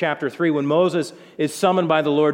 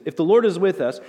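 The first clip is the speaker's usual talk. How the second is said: nervous pleading; 3 semitones higher than usual. Retold or imitated. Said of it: "I bet his voice hit another octave".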